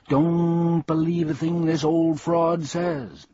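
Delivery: scornful bee. Acted. Bee warning Milo about the humbug, high and scornful. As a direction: warn the boy off the fraud.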